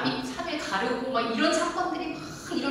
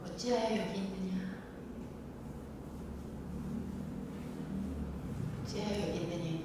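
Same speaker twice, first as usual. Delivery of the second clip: soft repeated question; 3 semitones lower, 12 dB quieter than usual. Shown as a demonstration. Repeating God's question softly.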